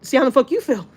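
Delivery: heated, mock-threatening rant; indignant, sweary outburst; retold fury. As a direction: replay your angry threat, rising at the end. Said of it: "I even got so mad".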